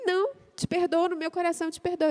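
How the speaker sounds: voz mais aguda e mansa de esposa teimosa; orgulhosa teimosa. Retold or imitated. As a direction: leve imitação da esposa orgulhosa. (imitando a esposa orgulhosa ao marido, mais aguda)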